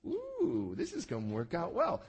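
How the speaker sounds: conniving Esau. Retold or imitated. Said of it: "Esau is playing into it and going".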